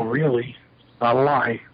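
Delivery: matter-of-fact, falling assurance; retold confirmation. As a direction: confirm it simply, replaying your own answer. Student confirms the claim.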